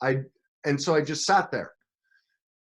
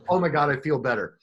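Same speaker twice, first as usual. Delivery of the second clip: flamboyant TV guy; 3 semitones higher, 4 dB louder than usual. Retold or imitated. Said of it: "Very flamboyant".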